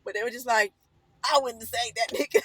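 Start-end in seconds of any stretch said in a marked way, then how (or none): 1.2-2.4 laughing quote. Retold or imitated. Guys laughing at her story.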